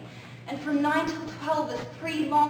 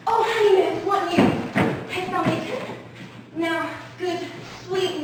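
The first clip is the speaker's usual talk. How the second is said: eager calling out; 3 dB louder than usual. Acted. Juliet eagerly calls nurse.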